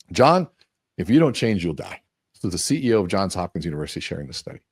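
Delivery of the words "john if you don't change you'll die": stern doctor warning. Retold or imitated. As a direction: play a doctor warning a patient at the bedside. Doctors warn patient after surgery.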